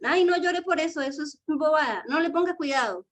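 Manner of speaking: más agudo, un ay despectivo; padre que quita importancia. Retold or imitated. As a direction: minimiza el llanto como papá impaciente. Papá anulando la emoción del niño. (papá que le quita importancia al llanto, agudo y despectivo)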